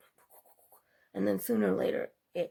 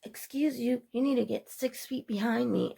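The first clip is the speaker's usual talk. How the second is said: higher, mildly imitated irate shopper; mock angry scolding; 4 semitones higher, 3 dB louder than usual. Angry lady in the store line, mildly imitated scolding. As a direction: play her as a mildly huffy woman barking rules. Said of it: "got mad and started going".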